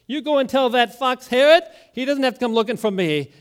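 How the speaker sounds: a hint of Jesus defying Herod; Jesus defiant. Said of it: "Jesus says".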